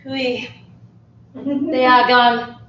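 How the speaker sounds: put-on French accent. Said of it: "see a scene of that character".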